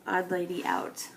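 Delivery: breathy whisper tossed off to herself; whispered aside. Real, not acted. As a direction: drop to a whisper for the little joke. Aside about leftover photo.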